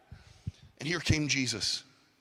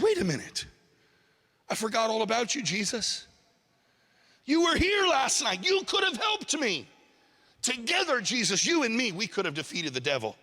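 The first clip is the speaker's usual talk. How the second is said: higher-pitched, acted reproach of a let-down man; indignant protest; 5 semitones higher than usual. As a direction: plead your grievance in mock dismay. Man reproaches Jesus after struggle.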